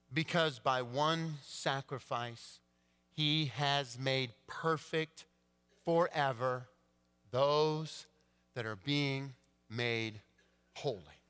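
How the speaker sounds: slow, solemn verse reading; scripture reading. Acted. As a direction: read the verse reverently. Reads scripture verse slowly.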